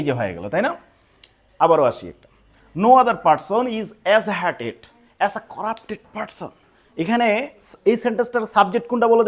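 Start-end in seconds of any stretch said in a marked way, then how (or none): 2.7-6.5 slow dictation reading. Shown as a demonstration. Teacher reading board example aloud.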